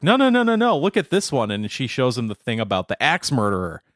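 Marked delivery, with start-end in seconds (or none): 0.0-1.5 a hint of the insistent mom, higher; imitating the mom. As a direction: insist like an excited mum. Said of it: "And she's like".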